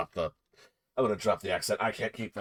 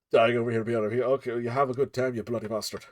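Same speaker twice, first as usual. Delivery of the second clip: put-on Scottish accent. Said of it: "Scottish bear".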